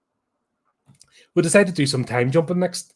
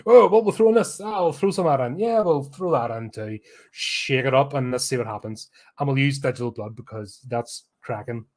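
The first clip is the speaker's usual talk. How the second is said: mocking careless director. Reviewer mocks the director throwing random ideas into the movie, breezy and careless. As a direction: lightly ham up a clueless director tossing ideas in.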